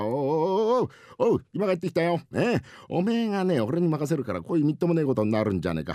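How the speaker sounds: lightly voiced, indignant rakugo husband; flustered scolding husband. Husband scolds wife over the pillow mishap, indignant. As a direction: grumble like an exasperated husband.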